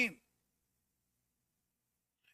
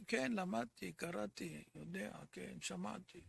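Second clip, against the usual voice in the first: mock dismissive; 6 semitones lower, 12 dB quieter than usual. Mocking careless learners' dismissive words.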